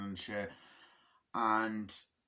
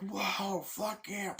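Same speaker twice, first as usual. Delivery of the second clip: mock soldier cheer; 9 semitones higher, much slower than usual. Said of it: "They're like".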